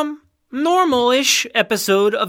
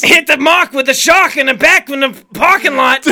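louder nonsense rhyme in a light rapper imitation; mock rapper; 3 semitones higher, 6 dB louder than usual. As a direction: spit a half-rhyme like the rapper. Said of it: "The parking lot got me so goddamn good".

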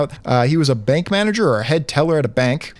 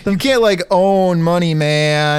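hippie voice; 3 semitones higher, slower than usual. Pretend. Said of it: "you could put a hippie voice on it".

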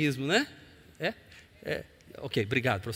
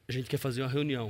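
quick, low hushed voice; quiet retold request; 5 semitones lower, 6 dB quieter, faster than usual. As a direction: say it low and fast, like a secret. Pastores propondo reunião aos traficantes. (voz baixa e rápida)

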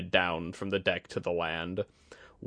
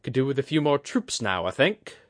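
higher, brash mantis sensei talking shop; a gruff, cocky older woman weighing weapons; Kudaka's rough voice; 5 semitones higher than usual. Acted. Kudaka sizing up the enemy ballistas, brash and higher.

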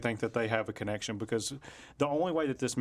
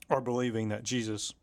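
mouth full. Real, not acted. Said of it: "I had strawberries in my mouth".

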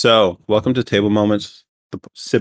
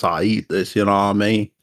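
put-on Southern accent. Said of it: "That's my Southern accent".

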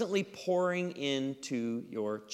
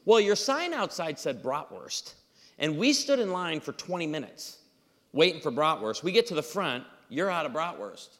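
imitated grievance, a touch raised; frustrated customer; 2 semitones higher than usual. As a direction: lay out a mildly indignant complaint. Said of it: "we're pretty frustrated".

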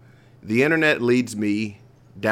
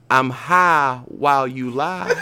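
stoner; 2 semitones higher, slower than usual. Acted. Poem read after joking he's high.

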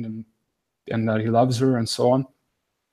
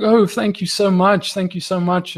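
higher voice, gushing thanks; retold grateful outpouring; 6 semitones higher than usual. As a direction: imitate her high-pitched, relieved gratitude. Healed lady thanking him, retold.

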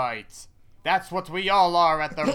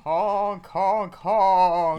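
goose honking, raised pitch; 4 semitones higher, 3 dB louder, much slower than usual. Acted. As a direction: honk out like a goose. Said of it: "Are you a goose?".

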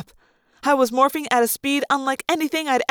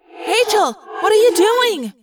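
high, loud, slow alarmed call to a falling friend; alarmed yell; 10 semitones higher, 5 dB louder, slower than usual. Acted. Cassie calling out to falling Rachel, alarmed yell. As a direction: shout her name in alarm. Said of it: "Cassie yelled".

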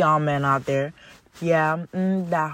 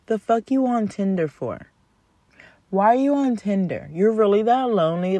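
incredulous rant; 4 semitones higher, 4 dB louder than usual. Real, not acted. Ranting at Tinder guy.

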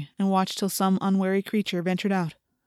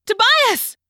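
high, loud cry of his name; cried out; 14 semitones higher, 4 dB louder than usual. A narrator's reading. Rachel sees Tobias streak past, cries out loud. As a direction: Rachel calls out in alarm. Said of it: "she cried".

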